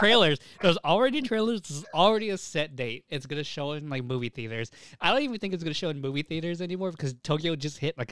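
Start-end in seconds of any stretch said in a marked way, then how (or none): 0.6-3.0 insistent. Real, not acted. Arguing with friend over release.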